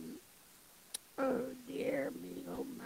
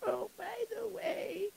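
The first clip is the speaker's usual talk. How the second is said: a touch of crying in the voice; tearful; 3 semitones higher than usual. Acted. Widow pleading with the shamas, tearful. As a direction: let the tears catch the words.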